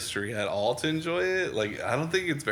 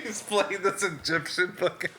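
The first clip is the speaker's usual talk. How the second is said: lightly put-on British accent, higher and slowed; mock British accent, pitched up; 8 semitones higher than usual. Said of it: "best British accent I've heard come out of you".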